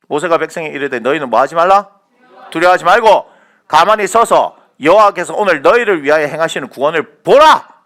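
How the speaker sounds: thundering sermon climax; full-force preaching. Real, not acted. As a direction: proclaim the promise at the top of your voice.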